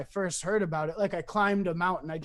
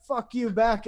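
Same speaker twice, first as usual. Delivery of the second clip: higher-pitched imitated comeback; retold angry retort; 4 semitones higher, 3 dB louder than usual. Him answering the dude who bumped him, mildly heated. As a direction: fire back, only half-heated. Retold bar bump quarrel.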